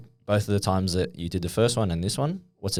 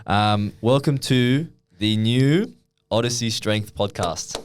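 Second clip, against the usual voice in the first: announcing big news; slower than usual. Pretend. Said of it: "should we do the big announcement".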